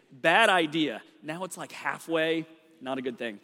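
talking around a half-melted mint; words muffled by a strong mint; mint in mouth. Real, not acted. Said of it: "I threw a mint in my mouth".

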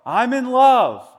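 high, loud and slow; yelled. Retold or imitated. Buddy bursting into his dad's meeting, yelling happily. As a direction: belt it out in joyful triumph. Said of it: "he yells out what".

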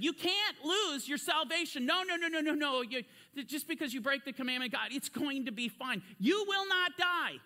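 mock reassuring devil. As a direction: play the devil waving away the danger, insistent. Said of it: "who came and said".

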